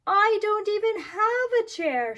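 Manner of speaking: put-on high, loud child's shout; loud high upset shout. A narrator's reading. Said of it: "shouted little Chan".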